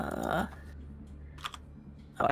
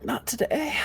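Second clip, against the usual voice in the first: dramatic hushed whisper; 6 semitones higher than usual. Pretend. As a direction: breathe it like a secret verdict. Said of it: "am I being judged in the Colosseum?".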